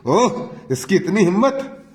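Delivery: a touch of anger, lightly voiced; mildly outraged father-in-law, understated; angry. A narrator's reading. Father-in-law hears the daughter-in-law accused, mild anger. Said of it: "ससुर क्रोध से".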